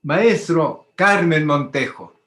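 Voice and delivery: slow, grand, ceremonious announcement; slow solemn formal introduction; pompous and solemn. Retold or imitated. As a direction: present her like royalty, drawn out. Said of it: "prosopopéyico y solemne".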